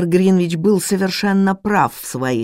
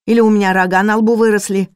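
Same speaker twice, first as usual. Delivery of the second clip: louder, fast, irritated retort; losing patience; 5 semitones higher, 5 dB louder, faster than usual. Acted. Cook loses patience with the governess, louder fast retort. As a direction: fire it back fast, fed up. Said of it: "не выдержала она".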